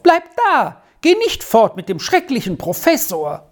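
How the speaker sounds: put-on high, insistent child's plea; child's cry. A narrator's reading. Squirrel begs Arthur to stay, high pleading cry. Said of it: "schrie Squirrel auf".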